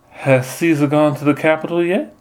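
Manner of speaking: high sugary belle voice; sweet southern belle. Retold or imitated. Nun as Portia sweet-talks the Soothsayer in a belle voice. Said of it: "silky, sweet voice".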